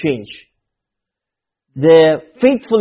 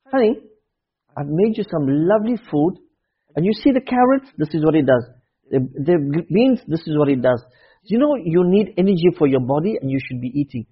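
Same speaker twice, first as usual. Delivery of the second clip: softer, lower coaxing voice; tender parent; 5 semitones lower, 4 dB quieter than usual. Retold or imitated. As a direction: coax the child gently.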